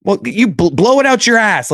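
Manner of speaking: high, hissed-back comeback; muted bickering. Retold or imitated. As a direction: snap it under the breath. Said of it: "like, a muted".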